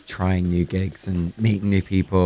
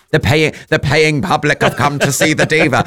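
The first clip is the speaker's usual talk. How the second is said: announcer voice; 7 semitones higher than usual. Retold or imitated. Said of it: "there'd be a".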